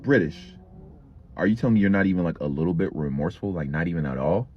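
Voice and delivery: a principal asking in mild disbelief; principal's voice. Retold or imitated. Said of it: "She's like".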